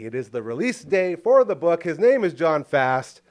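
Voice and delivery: running out of breath; gasping through the last words. Real, not acted. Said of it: "I ran out of breath".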